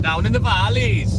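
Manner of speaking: high, sing-song mock Welsh lilt, stretching valleys; a self-confessed terrible Welsh accent, high and lilting; bad Welsh accent. Streamer teasing a Welsh viewer, in a hammed-up Welsh accent. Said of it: "Excuse the bad accent".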